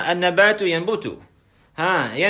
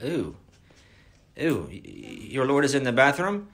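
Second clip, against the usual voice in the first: mock shock; 3 semitones lower, 3 dB quieter than usual. Mock shocked reaction repeated.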